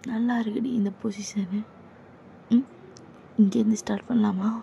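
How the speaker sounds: creepy senior whisper. Acted. Senior whispering close to the junior, menacing.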